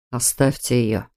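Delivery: low, understated plea; pleading. A narrator's reading. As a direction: ask it low, with restraint. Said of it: "попросил Адам". (сдержанно, с просьбой)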